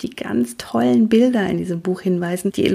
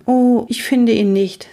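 put-on higher, mildly let-down young voice; disappointed sigh; 6 semitones higher, 5 dB louder than usual. A narrator's reading. Luzifer reports Cornibus missing, mildly disappointed. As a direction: give up searching with a touch of dismay. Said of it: "sage ich enttäuscht seufzend".

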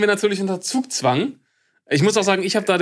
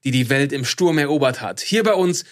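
arrogant; 2 semitones lower than usual. Acted. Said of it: "es wird nicht mehr arroganter".

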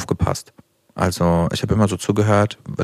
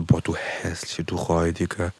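playful insult; 5 semitones lower, 6 dB quieter, slower than usual. Retold or imitated. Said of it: "das ist immer so".

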